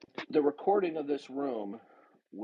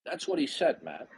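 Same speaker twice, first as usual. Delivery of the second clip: exasperated, indignant accusation; indignant outburst; 4 semitones higher than usual. Real, not acted. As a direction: pitch jumps high, indignant. Angry accusation in debate.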